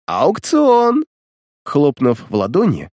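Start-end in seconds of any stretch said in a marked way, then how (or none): 0.1-1.0 proclaiming. A narrator's reading. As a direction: announce it to the room. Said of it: "прогласил пират". (громкое объявление)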